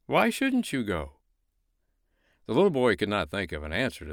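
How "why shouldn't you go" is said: high, slow snowman voice. Acted. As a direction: coax the boy gently. Snowman answers.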